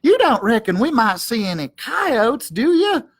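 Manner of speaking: high, worried little dog voice; timid sidekick dog fretting about coyotes; nervous Drover. Acted. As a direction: ask it hoping for a no.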